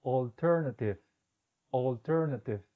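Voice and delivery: "alternative" starting with a long open O; whole word. Shown as a demonstration. Teacher putting the syllables together. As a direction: join the parts into "alternative". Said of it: "Todo junto".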